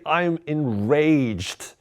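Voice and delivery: enraged stretched very slowly; stress on enraged. Shown as a demonstration. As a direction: drag out enraged for effect.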